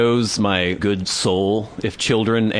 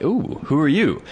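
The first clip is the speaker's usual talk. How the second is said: higher, intrigued dog's voice; curious dog; 4 semitones higher than usual. Retold or imitated. Dog eyeing a stranger through glass, intrigued. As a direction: perk up with sudden interest. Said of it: "gave me this look like".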